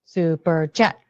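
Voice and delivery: hammed-up greedy chant; mock demand. Jokingly demanding super chats.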